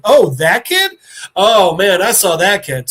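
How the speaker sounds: loud, animated acted realisation; sudden recognition. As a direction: perk up as the doctor remembering. Doctor suddenly recognises who is meant.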